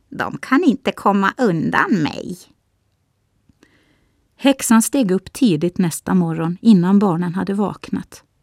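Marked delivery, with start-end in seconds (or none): 0.2-2.4 scornful, mocking, sneering, derisive jeer. Narrator reads the witch speaking of Hans and Greta, scornful. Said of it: "hade hon sagt hånfullt".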